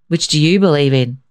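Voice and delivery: put-on a lightly gruff old man tossing it back; mildly grumpy grandfather voice; understated gruff question. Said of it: "his grandfather asked gruffly".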